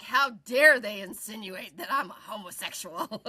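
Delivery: hammed-up indignant "how dare they"; theatrical fake offense; mock outrage. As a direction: play the offended one, half laughing.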